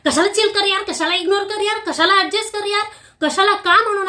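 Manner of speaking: exasperated questioning; indignant challenge. Real, not acted. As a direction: demand why, fed up. Indignant rejection of refrain.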